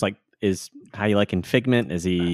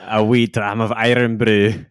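mock Scottish; 4 dB louder, slower than usual. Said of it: "how's your Scottish accent".

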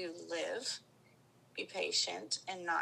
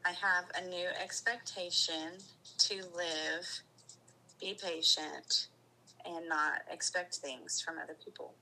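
heartfelt affirmation. Real, not acted. Client repeating her affirmation to feel it in her chest, heartfelt. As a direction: let each phrase sink in as you say it. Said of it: "I want you to feel that feeling in your chest".

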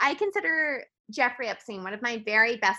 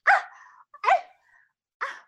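short, gaping "ah" gasps; mock an open-mouthed award winner gasping; repeated slack-jawed little gasps; much faster than usual. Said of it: "with her mouth open".

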